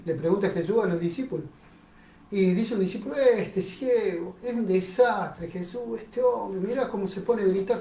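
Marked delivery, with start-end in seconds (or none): 3.2-7.8 slow, softer grumbling; complaining disciple. Acted. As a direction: complain about the troublemaker. Disciple complains about the blind man.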